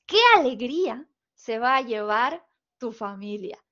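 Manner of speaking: a demo of happy, exclaimed delight; joyful exclamation. Shown as a demonstration. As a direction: say it as good news to share. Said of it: "no le estoy dando ninguna emoción".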